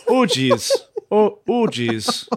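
playful Minnesotan exclamation, laughing; hammed-up Minnesotan accent. Shown as a demonstration. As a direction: roll out a mock Minnesotan lament. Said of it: "pulling off a Minnesotan accent".

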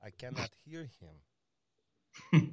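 badly faked French Canadian, sliding into Russian; botched French Canadian accent. Co-host showing off an imitation, botched French Canadian accent. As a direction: attempt French Canadian and land half Russian. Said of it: "See, that was half Russian".

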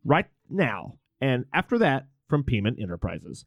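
lightly voiced late-night radio host; half-hearted talk radio host impression; Art Bell. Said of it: "This is Art Bell".

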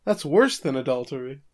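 mock-shocked daughter, pitch climbing on the question. Daughter learns the man was her dad, acted shock. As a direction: imitate a scandalized reaction. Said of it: "Ron's shocked".

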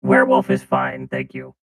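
robot voice. Acted. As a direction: talk like a deep-voiced robot. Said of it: "please do the episode like this".

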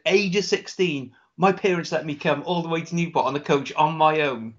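lightly attempted Brummie accent; poor Brummie accent. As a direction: imitate a Brummie, not very well. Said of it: "a Brummie accent from me".

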